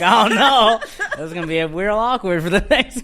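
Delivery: loud, high and breaking into laughter; laughing. Real, not acted. Telling friends about an awkward quarantine start, laughing. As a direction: laugh your way through the words.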